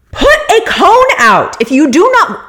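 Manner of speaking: loud demand. Retold or imitated. Demanding cones from the valet.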